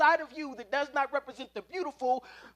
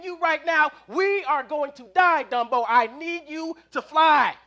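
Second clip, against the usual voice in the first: pleading sermon; 6 dB louder than usual. Acted. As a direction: beg him to fly like a preacher. Mouse's desperate sermon.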